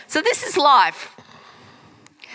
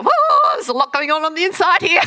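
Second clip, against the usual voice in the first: mock overwhelmed; 5 semitones higher, 3 dB louder, faster than usual. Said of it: "When you go".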